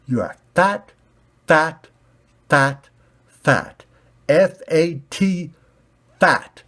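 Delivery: loud, high chanting taunt. Acted. Red ball taunting the black square, loud high. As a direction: rub it in, schoolyard style.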